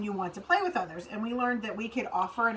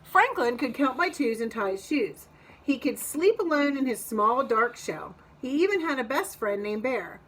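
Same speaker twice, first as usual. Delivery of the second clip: put-on reading to children. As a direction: lively, clear storybook read-aloud. Reads picture book to kids.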